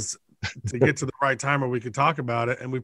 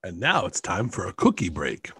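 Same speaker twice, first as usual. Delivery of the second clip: low monster voice; 8 semitones lower than usual. Pretend. Cookie break bit.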